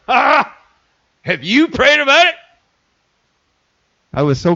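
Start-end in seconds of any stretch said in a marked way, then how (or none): 0.1-2.4 high, sing-song mock of the wife's question; lightly mocking the spiritual wife's nagging; pious wife imitation. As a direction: parody the wife's preachy question, pitched up. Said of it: "my very spiritual wife".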